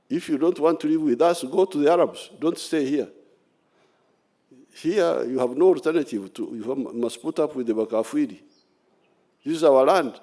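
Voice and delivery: roaring rallying speech. Real, not acted. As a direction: drive it home to the rebels. Warning to the rebels.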